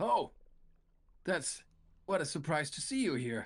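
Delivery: surprised, caught-off-guard tone. Voicing a tavern character who sees the party: surprised NPC greeting. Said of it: "he seems surprised to see you. And he goes".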